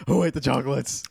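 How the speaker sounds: mock mom voice asking; lightly voiced angry mom; imitating mom. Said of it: "my mom would, like, be like".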